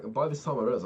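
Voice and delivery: normal talking voice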